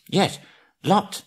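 high, squeaky little hobbit voice; frightened hobbit. Acted. Bilbo blurting to the trolls, squeaky high hobbit. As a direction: pipe it up small and scared.

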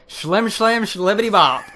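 high goofy sing-song nonsense; silly catchphrase. Pretend. Co-host showing off his catchphrase, high goofy sing-song. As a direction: toss it off as a cartoon catchphrase. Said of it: "I have".

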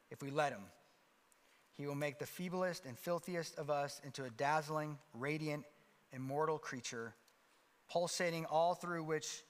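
measured sermon reading with slowed, weighty phrases. Acted. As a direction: read the passage to the congregation, building to a hush. Reads and preaches a passage.

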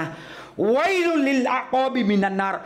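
loud calling out. Shown as a demonstration. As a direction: stretch วัยลุล and call it out slowly. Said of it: "ใช้เสียงดังด้วย".

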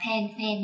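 "pen" as a short Vietnamese syllable; wrong Vietnamese-style reading. Shown as a demonstration. Teacher warning children off Vietnamese-style "pen", said as the mistake. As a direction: say "pen" plainly the Vietnamese way, little puff. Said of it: "hoàn toàn không đọc từ này là".

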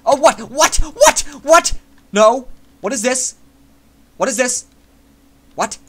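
shocked disbelief. Real, not acted. Gamer hit by sudden lag, shocked cries. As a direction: yelp in total disbelief.

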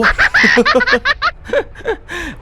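sudden high-pitched burst of laughter; quick giggle at himself. Real, not acted. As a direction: laugh it off brightly. Laughs at his own plan.

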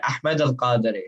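"Ahmed Al Qadri" with a breathed Arabic h; proper Arabic pronunciation. Shown as a demonstration. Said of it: "that is the proper way to say it".

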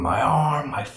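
retold scream. Movie fan retelling Harry screaming about his arm, mock scream. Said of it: "and he's screaming".

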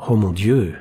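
sighing, mildly resigned; patient gives in, a little weary; understated resignation. Acted. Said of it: "émit Angela d'un ton résigné".

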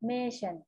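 "merchant" repeated as "MAY-sen", with a falling second syllable; English word model. Shown as a demonstration. Teacher repeats the English for the children, "merchant" modelled as a clear example. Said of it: "ภาษาอังกฤษอ่านว่า".

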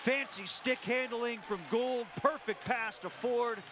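lifted, slowed goal call. Real, not acted. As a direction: savor the fancy play as it goes in.

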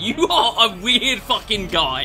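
laughing. Real, not acted. Laughing at Rudiger's odd shots.

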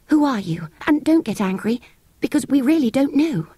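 put-on kindly girl. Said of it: "still kindly".

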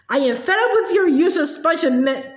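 mild roar of disgust, stumbling; contemptuous roar. Acted. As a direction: spit out the insult. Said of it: "roared the Trunchbull".

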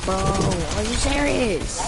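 slow, drawn-out disbelief; exasperated disbelief. Real, not acted. Player complaining after getting shot, exasperated. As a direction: stretch it out in exasperation.

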